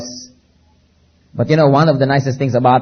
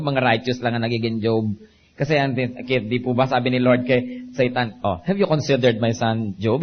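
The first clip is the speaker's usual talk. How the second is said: much softer, confiding tone; quiet aside; 2 semitones lower, 6 dB quieter than usual. Acted. (mahinang pabulong na pagsasalita)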